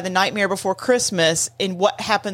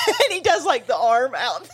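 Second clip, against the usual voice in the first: laughing; 4 semitones higher than usual. Real, not acted.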